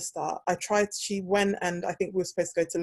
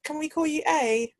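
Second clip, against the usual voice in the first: higher-pitched mock polite request; put-on higher questioning voice; imitating others; 10 semitones higher than usual. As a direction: lightly mimic someone asking for a nickname. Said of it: "They'll be like".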